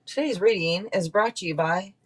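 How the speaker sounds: lightly voiced ad announcer; mock commercial. Joking that the reading has a sponsor, mock ad read. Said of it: "I'm doing commercials today".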